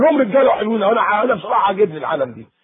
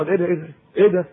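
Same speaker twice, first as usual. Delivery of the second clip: mock teen yelling. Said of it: "اعمل لها كده".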